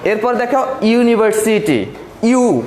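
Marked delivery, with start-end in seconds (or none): 2.2-2.6 ইউ on its own, cut from the word; single out the opening ইউ sound; ইউ sound isolated. Shown as a demonstration. Teacher showing how university starts, ইউ sounded alone. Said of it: "ইউটা উচ্চারণ হচ্ছে".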